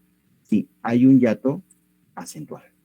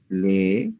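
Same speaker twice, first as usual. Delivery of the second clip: "Le" as a separate syllable; 5 semitones lower than usual. Shown as a demonstration. Teacher splitting a word for students, syllable by syllable. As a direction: say "Le" on its own, then pause. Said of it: "la palabra tendría tres sílabas".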